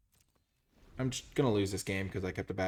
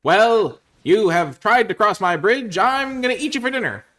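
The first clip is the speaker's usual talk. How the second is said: high, loud troll threat; hammed-up, hungry storybook troll; mean old troll; 13 semitones higher, 16 dB louder, slower than usual. Troll threatening to eat the goat, loud theatrical menace. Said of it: "And the troll said".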